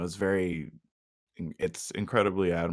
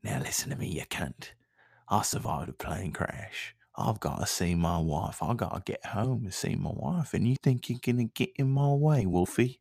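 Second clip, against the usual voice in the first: action hero. Pretend. Action-hero threat to wolf.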